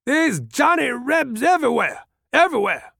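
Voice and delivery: put-on high-pitched old man's outburst; high, toothless old fellow raging; feeble toothless rage. A narrator's reading. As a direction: cry it out like a weak, enraged old man. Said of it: "glaring with feeble, toothless rage".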